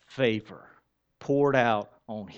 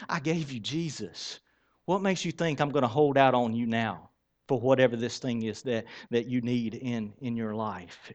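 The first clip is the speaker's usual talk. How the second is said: gentle voice of God; 4 dB quieter than usual. Acted. Preacher voices the Holy Spirit speaking.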